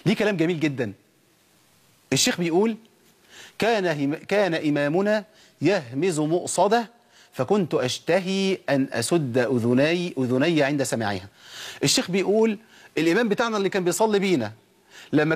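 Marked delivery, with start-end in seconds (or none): 3.6-11.3 slow, measured recitation; formal classical quotation. Acted. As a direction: recite the scholar's words deliberately. Quotes the sheikh's saying in Arabic.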